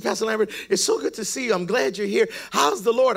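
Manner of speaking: a touch of eager, pious welcome; gushing greeting. Acted. Church lady greets her pastor, lightly gushing greeting.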